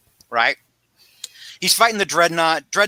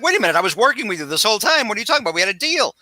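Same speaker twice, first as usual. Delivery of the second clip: mock panic; 6 semitones higher, much faster than usual. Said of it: "Julie Winston freaks out".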